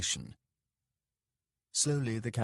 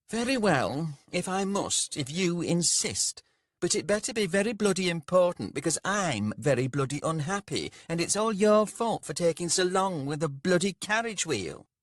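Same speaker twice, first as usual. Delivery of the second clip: high, loud, whining complaint; a spoilt boss scolding, fast in the middle; pampered merchant blaming his servant, high and loud; petulant merchant; 10 semitones higher, 5 dB louder than usual. A narrator's reading. Rika's petulant speech.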